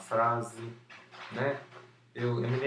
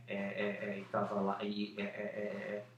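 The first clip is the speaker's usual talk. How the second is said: imitating filler tic; 3 semitones lower, 6 dB quieter than usual. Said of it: "uso abusivo do é".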